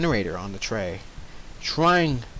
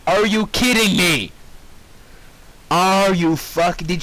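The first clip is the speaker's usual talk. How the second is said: disbelief; 5 semitones higher than usual. Real, not acted. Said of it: "reader disbelief".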